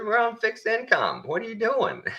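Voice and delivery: high, strained mock protest; voicing a furious pensioner who cannot pay; livid old man. Old man on fixed income telling the clerk, high and livid. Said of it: "the guy's just livid".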